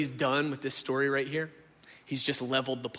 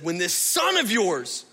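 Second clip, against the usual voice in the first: bitter complaint; 4 semitones higher, 5 dB louder than usual. Acted. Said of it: "brother says".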